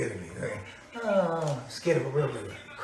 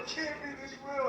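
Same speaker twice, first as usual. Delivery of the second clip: much softer, whispered disbelief; hushed whisper; 4 semitones higher, 14 dB quieter than usual. Acted. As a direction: say it barely above a breath. Second take, hushed.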